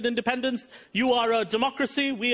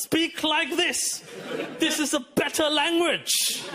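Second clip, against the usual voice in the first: mock colonial instruction, lightly voiced; slowly dictate, a hint of the imperial tutor; British colonisers; 3 semitones higher, slower than usual. British newcomers instruct Indians, mildly mocking colonial voice. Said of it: "some British people came over to India and told us".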